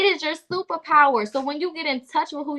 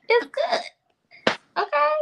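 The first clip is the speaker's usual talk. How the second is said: mock soothing; 14 semitones higher than usual.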